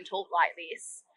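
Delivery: slow, broad Aussie drawl; demonstrating a stereotypical Australian accent; strong Australian accent. Shown as a demonstration. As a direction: exaggerate the Australian accent, slowly. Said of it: "really strong Australian accent".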